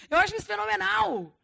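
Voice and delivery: high, loud burst of delight; light up with excitement. Real, not acted. Preacher thrilled by his own point, loud and delighted.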